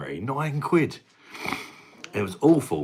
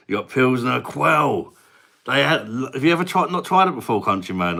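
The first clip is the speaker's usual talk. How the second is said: put-on Indian accent; 5 semitones higher, 4 dB louder than usual. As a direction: talk about beer as Rundy with a light Indian accent. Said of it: "an Indian guy called Rundi".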